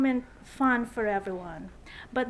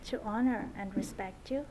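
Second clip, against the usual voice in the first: saying wedding vows; 3 semitones lower than usual. Real, not acted. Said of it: "would you repeat after me?".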